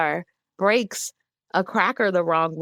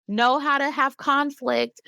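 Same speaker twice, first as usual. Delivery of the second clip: mock cheerful send-off; 6 semitones higher than usual. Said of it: "and then say".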